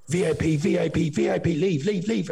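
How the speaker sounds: doctor dismissing the patient, high and brusque; imitating the doctor. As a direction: shoo him out in broken English. Doctor shooing him out.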